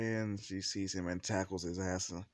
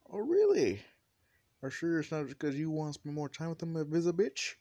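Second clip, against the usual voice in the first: high, loud, fast accusation; jealous challenge; 8 semitones higher, 6 dB louder than usual. Acted. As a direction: fire it back high and loud, mock outraged. Acted jealous quarrel between women.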